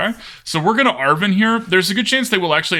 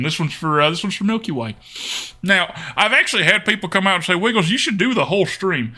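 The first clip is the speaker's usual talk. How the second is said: put-on Texan accent. Streamer plays the next game by viewer request, Texan accent. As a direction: lay on a playful Texan accent. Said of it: "I would say it with the accent".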